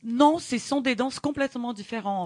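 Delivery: Brazilian accent in French; foreign accent in french. Real, not acted. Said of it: "excuse-moi mon français".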